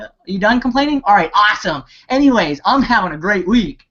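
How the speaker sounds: high, bright brush-off; mocking high voice waving off the complaints. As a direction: chirp it up high and cheerful. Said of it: "It's like".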